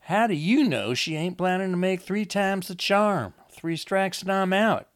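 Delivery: put-on high, loud, protesting young woman; agitated Lizzie. Lizzie accuses Wanda to Enoch, high and agitated.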